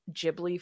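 Ghibli said as "Jibli"; soft G. Shown as a demonstration. Explaining why it feels wrong, Ghibli with J sound. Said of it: "feels like when people say".

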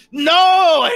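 loud, high cry of protest; anguished shout. Acted. Game master as the foe being slapped down, anguished shout. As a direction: yell it out as the blow lands.

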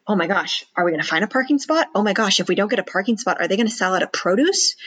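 fast, worried rambling; mild panic over a parking spot; anxious fretting. Retold or imitated. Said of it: "the person that's motivated by fear".

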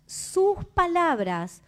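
"Sus palabras" said slowly, stretched word by word; slow emphasis. Shown as a demonstration. ("Sus palabras" dicho despacio y marcado)

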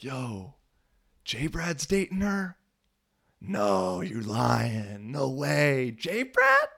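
high, incredulous teammates, pitched far up; mock disbelief. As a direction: ham up the teammates' shock at J Brad. Teammates disbelieving he dates her.

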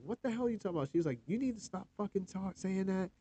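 a hint of the wife scolding him kindly; imitating wife. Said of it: "and she's like".

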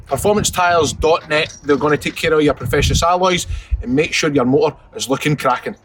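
slow, measured sponsor read; deliberate advertising patter, item by item. Acted. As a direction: sell it like a podcast advert.

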